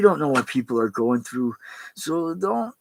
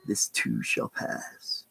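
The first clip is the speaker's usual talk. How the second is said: "This too shall pass" sunk low and quiet, very slow; low soft repeat; 7 dB quieter, much slower than usual. Shown as a demonstration. Repeating his daily mantra to himself, low and slow. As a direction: let it fall away, slow and low. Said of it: "I say to myself every day".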